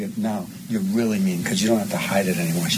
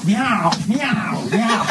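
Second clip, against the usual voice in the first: higher, louder cat cries through a laugh; shouted meows; 12 semitones higher, 4 dB louder, much slower than usual. Pretend. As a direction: yowl like a cat in a carrier. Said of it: "Can you now meow".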